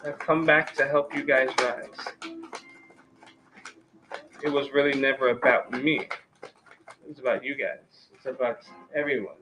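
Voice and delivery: a lightly voiced spirit speaking through the reader; hint of an otherworldly messenger; channeled spirit voice. Channeling a spirit's message to viewers.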